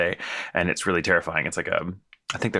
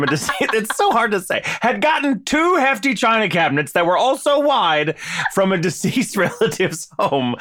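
high, loud, giggling read; reading through laughter; 10 semitones higher, 4 dB louder than usual. Real, not acted. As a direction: try to read on but keep cracking up. Reading aloud while laughing.

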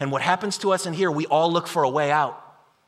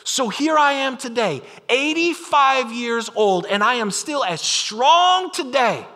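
proud Caleb; 5 semitones higher, slower than usual. Acted. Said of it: "This is Caleb talking".

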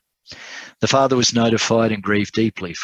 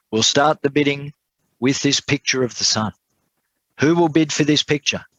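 higher-pitched auctioneer's call; 6 semitones higher than usual. A narrator's reading. Auctioneer to the crowd at the sale, calling out for bids. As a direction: open the bidding in a raised pitch.

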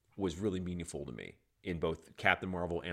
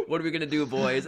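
a cocky taunt, pitched higher and louder; Carol taunting; 6 semitones higher, 7 dB louder than usual. Retold or imitated. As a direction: dare the bad guys to try something. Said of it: "And she's like".

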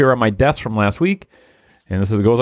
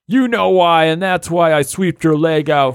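menacing reply; 5 semitones higher than usual. Acted. Character answer in story.

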